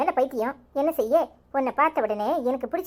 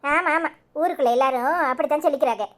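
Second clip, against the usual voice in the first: dry mock agreement, lightly voiced; a mild sarcastic jab at her husband's boast. Wife teasing her husband's boast, mildly sarcastic. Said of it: "என்னடி நக்கலா?".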